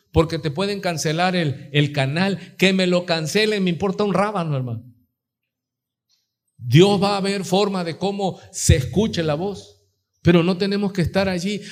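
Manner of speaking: ordinary talk, nothing marked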